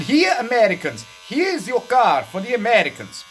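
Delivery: a hint of the eager dealer; car rental guy. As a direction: present the car proudly. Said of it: "He said".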